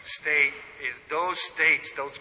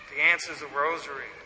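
quick repeat; faster than usual. Real, not acted. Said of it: "'cause the answer is the rosary".

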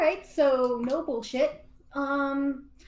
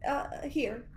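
whisper; 7 dB quieter than usual. Acted. Hushed exchange.

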